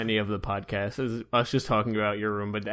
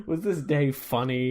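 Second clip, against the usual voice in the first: laughing; much slower than usual. Real, not acted. Laughing while repeating the question.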